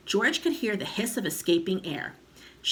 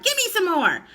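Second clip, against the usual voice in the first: high loud screechy cry; old grandma crying out; 13 semitones higher, 8 dB louder than usual. A narrator's reading. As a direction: shout it out gleefully. Grandma demanding.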